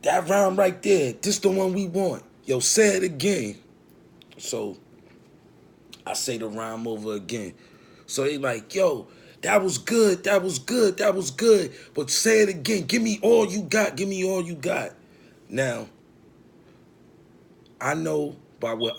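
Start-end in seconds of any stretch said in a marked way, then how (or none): 0.0-3.6 loud, high hype shout; hyped-up studio crew. Retold or imitated. Acting excited studio crew, loud. 8.8-14.9 hyped-up urging. Retold or imitated. Acting the crew urging him on.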